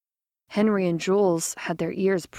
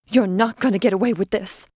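defiant; 4 dB louder than usual. Acted. Defiant threat to killer.

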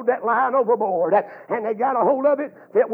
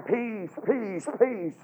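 mock plea; 7 dB quieter, much slower than usual. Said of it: "she's crying".

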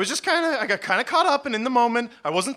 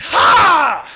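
triumphant ha; 9 semitones higher, 11 dB louder than usual. Acted. Triumphant cry after spell.

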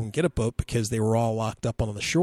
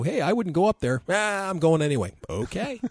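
mock exchange; 6 semitones higher than usual. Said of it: "and you go".

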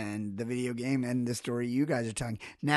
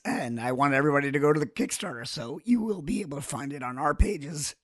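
hoarse, strained voice. Real, not acted. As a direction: talk through a lost, hoarse voice. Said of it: "since I have no voice".

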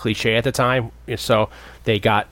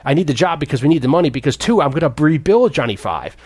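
mock explaining; 4 semitones higher than usual. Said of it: "He's like".

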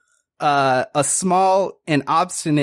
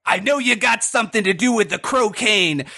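higher, pushy interrogator; gruff bad cop; 6 semitones higher than usual. Pig cop Porkmeister grilling the frog, pushy and higher. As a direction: lean on the suspect hard. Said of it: "a lot more gruff".

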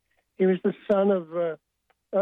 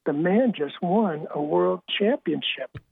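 deep voice; 2 semitones lower, slower than usual. Retold or imitated. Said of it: "in a very deep voice".

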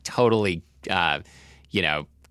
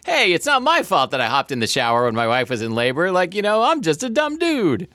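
dumb dude voice; 8 semitones higher than usual. Retold or imitated. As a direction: play a clueless dumb dude. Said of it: "like, like, you know".

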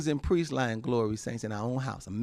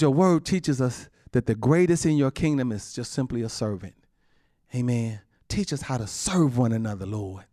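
prayer. Acted. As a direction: pray humbly to God. Closing prayer.

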